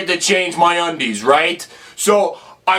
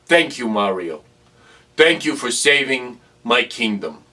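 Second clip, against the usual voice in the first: grateful princess; 8 semitones lower than usual. Retold or imitated. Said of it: "She says".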